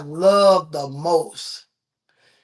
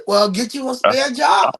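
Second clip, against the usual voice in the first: shouted comeback; 3 semitones higher than usual. Retold or imitated. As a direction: bark it back at the beggar. Retelling Robin Harris comeback bit.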